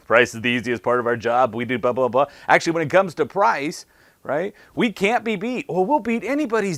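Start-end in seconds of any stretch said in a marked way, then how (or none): 0.1-2.3 rattled off. Retold or imitated. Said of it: "They rattle off an answer".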